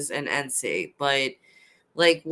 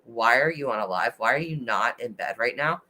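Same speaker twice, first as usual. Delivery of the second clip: lower, lightly voiced grumpy husband; mock scolding husband; 6 semitones lower than usual. Husband woken at four-thirty chiding her, mock stern and lower. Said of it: "It's, like, really, like".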